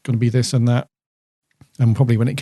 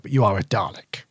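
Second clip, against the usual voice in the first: mildly venomous; 2 semitones lower, 4 dB quieter than usual. Retold or imitated. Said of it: "venomous in his delivery".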